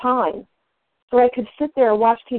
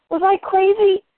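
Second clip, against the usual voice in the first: rhetorical question; 10 semitones higher than usual. Shown as a demonstration.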